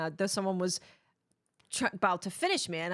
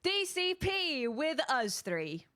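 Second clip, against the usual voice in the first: higher, drawn-out show opener; show intro; 7 semitones higher, slower than usual. Real, not acted. Host opening the show for listeners, drawn-out announcing. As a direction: sing out a slow welcome.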